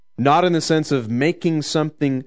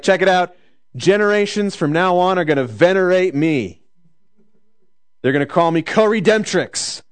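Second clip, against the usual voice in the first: mock boasting; 5 semitones higher than usual. A lightly voiced Mary boasting to the crowd, excited. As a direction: brag like she's hyping herself. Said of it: "She's like".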